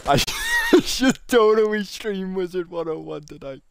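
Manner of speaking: put-on high squeal. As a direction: repeat it in a silly, high excited voice. Repeats idea in put-on voice.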